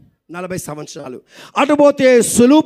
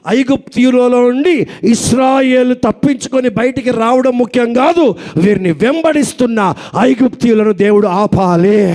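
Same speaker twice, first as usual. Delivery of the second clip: preaching shout; 3 dB louder than usual. Real, not acted. Preaching at full force.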